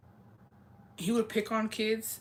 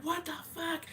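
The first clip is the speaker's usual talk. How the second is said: imitating a startled girl, high and soft; mock scared; 11 semitones higher, 8 dB quieter than usual. Pushed girl reacting to her attacker, mock scared. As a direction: squeak it out high and small, as if scared. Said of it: "Why are you acting scary now".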